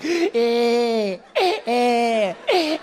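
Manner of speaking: put-on high, whining toddler cry; little brother's exaggerated wail; mock crying. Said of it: "he'll come back crying".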